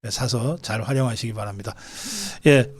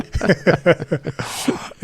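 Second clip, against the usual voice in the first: laughing; 2 semitones higher than usual. Real, not acted. Host laughs at his own joke.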